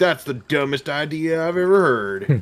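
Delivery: put-on dumb-sounding Southern Texan accent, high pitched. Speaker retells everybody's reaction to the three-country trade plan, in a put-on dumb texan accent. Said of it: "was that Texan?".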